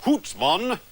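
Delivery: overdone fake Scottish burr; hammy Scottish accent. Mister McTavish congratulating the laddie, hammy Scottish accent. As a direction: ham up a patient's Scottish accent. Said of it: "rest that accent".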